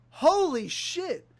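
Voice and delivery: high, drawn-out slow gasp of disbelief; stunned exclamation. Retold or imitated. Schoolmate recognizing him, slow high stunned exclamation. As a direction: let it stretch out in shock.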